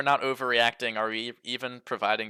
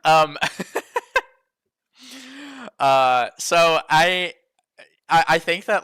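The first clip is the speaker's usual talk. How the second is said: higher, louder through laughter; laughing; 7 semitones higher, 10 dB louder, slower than usual. Real, not acted. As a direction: talk while still laughing. Laughing after joke.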